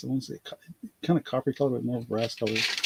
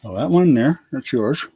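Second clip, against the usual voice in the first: pin in mouth; 4 dB louder than usual. Real, not acted. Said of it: "Sorry, pin in my mouth".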